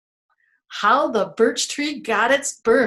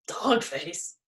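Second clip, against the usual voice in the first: whisper; 3 semitones lower, 5 dB quieter than usual. Real, not acted. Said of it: "whispered name".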